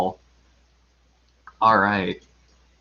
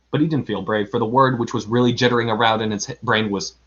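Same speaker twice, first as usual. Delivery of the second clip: expressive read-aloud storytelling; story narration; faster than usual. A narrator's reading. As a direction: tell it like a children's story. Reads a children's story aloud.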